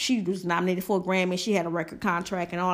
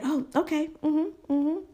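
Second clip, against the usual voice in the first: higher, airy dismissive brush-off; mock dismissive girl; 7 semitones higher than usual. The girl brushing off Doctor Phil, mock dismissive mm-hmm. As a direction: lightly mimic her brushing him off. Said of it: "And she was like".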